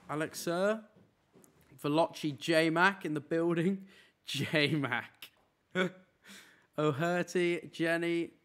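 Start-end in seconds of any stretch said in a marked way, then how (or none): 2.4-3.8 slow, louder hype call with rising end; hype announcer. Real, not acted. Hyping a subscriber's name. 4.2-5.3 J-Mac said through a laugh with a falling end. Real, not acted. Repeats name through a laugh.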